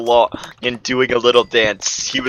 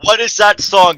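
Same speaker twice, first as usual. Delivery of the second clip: mild read-out scream; 7 semitones higher, 3 dB louder than usual. A narrator's reading. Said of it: "Sherp screamed".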